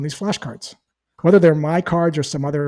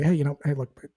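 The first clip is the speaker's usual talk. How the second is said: soft, calm and easy, a bit quieter; relaxed, reassuring sales-call tone; 4 dB quieter than usual. Shown as a demonstration. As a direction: settle the prospect gently before hanging up. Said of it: "in a very calm voice".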